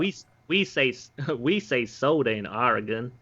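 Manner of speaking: put-on Australian trying a Southern American accent. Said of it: "You got a nice Southern drawl on it".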